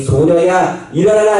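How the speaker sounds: put-on rising, firmer call to the girl; Jesus commanding. Jesus takes the dead girl's hand and commands her to rise. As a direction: lift the voice on "일어나라". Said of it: "그 아이의 손을 잡고 이르시게 말씀하십니다".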